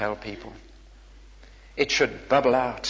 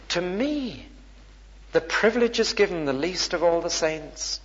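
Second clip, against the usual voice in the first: higher-pitched, mildly marvelling delivery; awed good-news bearer; 5 semitones higher than usual. Acted. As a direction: say it as an astonishing privilege. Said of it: "You talk like this".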